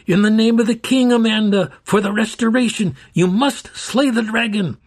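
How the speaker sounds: put-on old caretaker charging the princess in the king's name; solemn charge. A narrator's reading. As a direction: proclaim it like an oath. Solemn charge amid combat.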